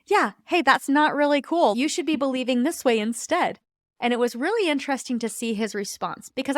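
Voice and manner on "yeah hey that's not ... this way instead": raised, higher pitched telling-off; mildly reliving getting vocal with him; retold vocal anger. Wife snapping at her husband, raised and higher pitched. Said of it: "I got a little bit vocal with him".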